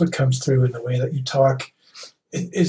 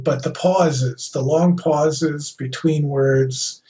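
Shatner-style pauses; much slower than usual. Shown as a demonstration. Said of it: "where every word is its own sentence".

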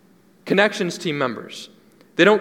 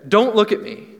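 passionate cry; 5 semitones higher than usual. Shown as a demonstration. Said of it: "with that kind of passion".

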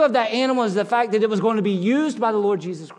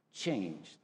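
hushed single word; 18 dB quieter than usual. Acted. Hushed climax word in sermon.

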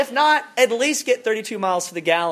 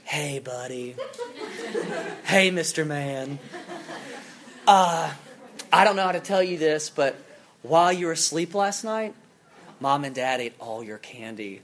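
parent gently waking a child, lightly voiced; gentle parent; 3 semitones lower than usual. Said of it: "And they tell them".

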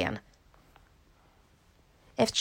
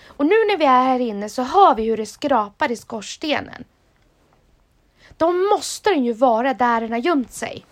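eager explaining; 3 semitones higher, 5 dB louder than usual. Acted. Vilma eagerly explains her theory.

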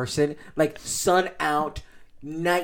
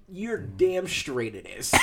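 laughing agreement; 7 dB quieter, much slower than usual. Retold or imitated. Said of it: "And I'm like".

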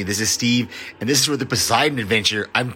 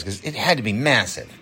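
usual speaking voice

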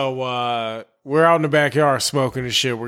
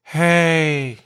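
southern drawl; slower than usual. Retold or imitated. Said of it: "that's how he spoke".

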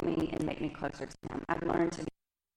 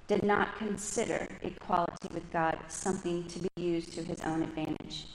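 measured, deliberate reading of the verse; slow scripture reading. Real, not acted. Reading Philippians to the congregation, slow and measured. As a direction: read it slowly, letting each phrase land. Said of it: "I'm gonna read slow".

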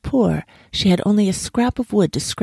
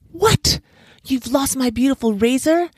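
very high-pitched outraged question; indignant monkey, voice shooting up; angry disbelief; 9 semitones higher than usual. A narrator's reading. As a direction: squeak out your outrage. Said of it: "chattered with anger".

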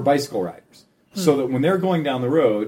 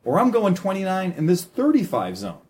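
higher-pitched, measured message to drivers; assertive appeal; 6 semitones higher than usual. Acted. Cyclist messaging car drivers, assertive appeal. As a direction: make the point to drivers, pitched up.

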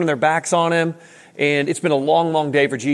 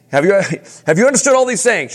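repeats the question with a laugh breaking in; amused, pointed re-asking; laughing retelling; 3 semitones higher, 3 dB louder, faster than usual. Retold or imitated. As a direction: ask it again, chuckling at how heavy it is. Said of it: "Just picture them like".

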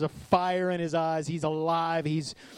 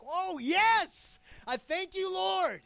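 high, bright thankful exclaim; happy prayer; 14 semitones higher, much slower than usual. Retold or imitated. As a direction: gush with joy in thanks. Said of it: "like, happy".

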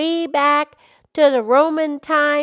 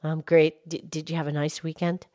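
much lower, gentle cow voice; Mildred the cow; 8 semitones lower, 6 dB quieter, faster than usual. Acted. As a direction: drop the pitch low to play the old cow. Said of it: "Mildred the Moo Moo Cow".

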